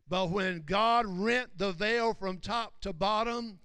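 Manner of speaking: loud, emphatic sermon delivery; forceful preaching. Real, not acted. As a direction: preach it out with weight on each phrase. Preaches the climax.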